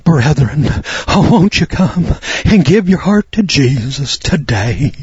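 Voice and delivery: a hint of a moaning revival preacher, slow; mock wailing preacher. Mocking other preachers pleading with their congregation, mild mock wail. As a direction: lightly send up the altar-call wail. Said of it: "to wail and bewail and to moan".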